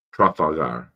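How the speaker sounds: speaking through a swollen mouth; thick, effortful words from swelling. Real, not acted. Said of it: "my mouth is swollen".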